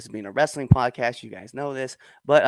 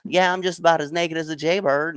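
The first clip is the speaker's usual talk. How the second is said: higher-pitched, easy Southern slur; 5 semitones higher than usual. Shown as a demonstration. Showing how easily cliche sayings bring out Southern slur. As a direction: let the Southern accent slide out. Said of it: "slur comes out so easy".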